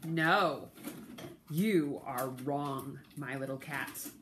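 a lightly voiced woodcutter setting the cat straight; firm woodcutter. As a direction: woodcutter calmly tells the cat no, low and slow. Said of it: "said the woodcutter".

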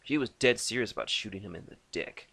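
ordinary delivery

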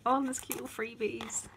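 soft breathy whisper; real excited whisper. Real, not acted. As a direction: hush it like a secret treat. Whispers over freebies.

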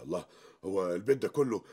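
indignant outburst. Acted. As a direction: rise into an offended rant. Husband protests to mother-in-law.

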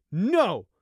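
loud, angry high shout. Acted. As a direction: shout him down angrily. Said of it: "Fleece shouted".

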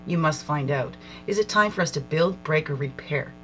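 measured, reflective reading voice; card reading. Acted. Reads oracle card text aloud.

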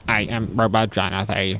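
low, soft mock robot; lightly put-on robot intonation. Host introducing himself as a robot, mock robot voice. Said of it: "Jonathan, what's your robot voice?".

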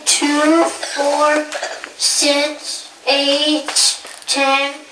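loud counting. Real, not acted. Child counts aloud to class.

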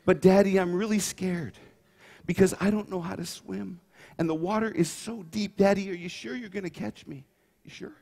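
a hint of a timid five-year-old pleading; little girl. Preacher playing his daughter, pleading with a volunteer dad. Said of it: "play the part of a cute little five-year-old girl".

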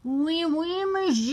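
high, drawn-out mock French; sing-song French waiter style; French accent. Shown as a demonstration. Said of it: "The French accent".

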